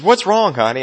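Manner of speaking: lightly voiced caring mother; mom comforting. Mother asks her crying son under the sink, gently. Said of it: "And she says".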